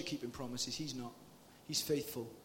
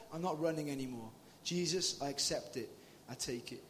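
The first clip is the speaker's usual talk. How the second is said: softer, quieter and lower; tender; 3 semitones lower, 4 dB quieter than usual. Acted. Preacher tells of his mother's faith, tender and soft. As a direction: speak it gently, from the heart.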